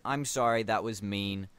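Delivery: lightly voiced New York character; casual New Yorker saying sorry; New York accent. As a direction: apologize with a hint of New York. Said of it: "this guy has a New York accent".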